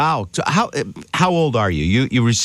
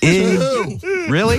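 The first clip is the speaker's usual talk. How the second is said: surprised; 10 semitones higher, much slower than usual. Real, not acted. Host reacts to masculinity claim.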